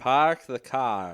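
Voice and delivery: slow, loud New York demo, light R's; New York accent. Shown as a demonstration. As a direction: say it like a New Yorker, drawn out. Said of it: "talk a New York accent".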